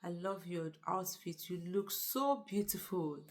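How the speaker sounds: lightly acted sweet talk; sweet-talker. Flatterer laying it on for his boss, lightly hammed-up sweet talk. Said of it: "he started the sweet talking thing".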